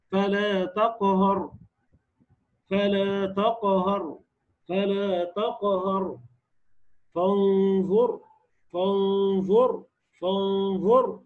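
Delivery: slow, drawn-out تقهر and فانظر with heavy ر; heavy final ra. Shown as a demonstration. Teacher reciting examples of the rule, heavy final ra in تقهر, فانظر. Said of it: "تفخم بشرطين".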